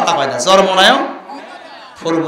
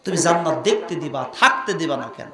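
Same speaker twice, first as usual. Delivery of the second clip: fast, much softer narration; quiet quick telling; 3 semitones lower, 9 dB quieter, much faster than usual. Acted. Jibrail asking God quietly, fast and soft. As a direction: rattle it off softly.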